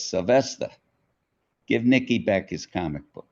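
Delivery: mother calling out. Retold or imitated. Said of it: "Sylvester's mother ... says".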